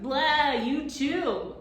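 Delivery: put-on high loud childish retort; yelled back. A narrator's reading. Tom yelling back at the gaboon, childish. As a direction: shout it right back at him. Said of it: "yelled back".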